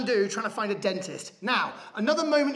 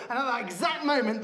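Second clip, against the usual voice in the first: usual speaking voice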